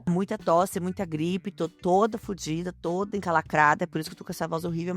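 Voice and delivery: hoarse, blocked-nose voice; hoarse from a cold. Real, not acted. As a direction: talk through a bad cold. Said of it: "essa voz de pato que vocês estão ouvindo". (voz rouca de gripe)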